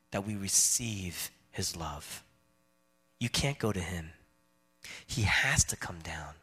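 drops to a soft, low whisper; whispering the mystery of grace; hushed to a whisper. Real, not acted. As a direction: let it fall away to a hush. Preacher drops to hush.

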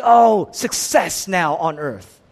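drawn-out grand announcement; stretched-out heralding; mock proclamation. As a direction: proclaim it slowly like big news. Mimics a proclamation nobody makes.

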